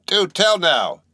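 put-on an old man's startled exclamation; cried out. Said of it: "cried Bildad".

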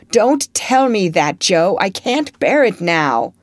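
loud, slow, fierce protest; fierce outcry. Acted. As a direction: cry it out fiercely. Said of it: "cried out in a fierce tone".

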